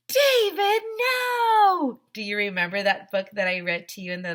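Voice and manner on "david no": high, loud "No, David" scold; a hammed-up scolding parent; mock scolding mom. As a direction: shout it like the exasperated mother in the book. Mother's cry from David book.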